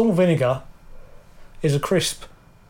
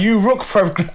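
higher-pitched mock Chinese accent; 5 semitones higher than usual. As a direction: parody a botched accent as Chinese. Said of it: "Sounds Chinese".

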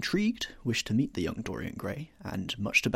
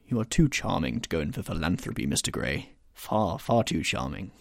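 lower, smooth aristocrat; lightly voiced suave lord; suave Lord Henry; 3 semitones lower than usual. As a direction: charm the young man, unhurried.

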